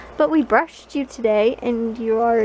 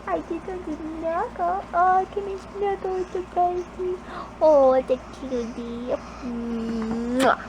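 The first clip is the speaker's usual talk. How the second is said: quiet cooing, asking to snuggle; 3 dB quieter than usual. Real, not acted. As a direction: owner quietly cooing while snuggling her dog. Snuggling the dog.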